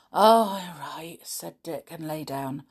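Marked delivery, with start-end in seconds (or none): 0.1-1.2 grudging assent. A narrator's reading. Dick gives in to Julian about waiting to swim, grudging. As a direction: give in with a reluctant, heavy start.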